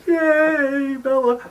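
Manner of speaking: high, drawn-out little cheer; playful retold hooray; mock group cheer. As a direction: imitate a crowd cheering its heroine.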